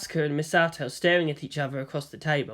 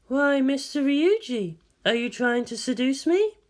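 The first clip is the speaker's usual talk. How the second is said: cool amused woman; 9 semitones higher than usual. A narrator's reading. Ritsuko responds to advances.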